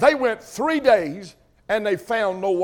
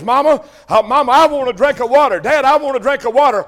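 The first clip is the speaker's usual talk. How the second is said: put-on begging children; 3 semitones higher, 5 dB louder than usual. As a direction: whine like thirsty kids asking mama and dad. Children begging parents for water.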